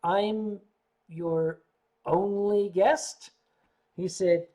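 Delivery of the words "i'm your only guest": slow stunned disbelief. Retold or imitated. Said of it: "I said".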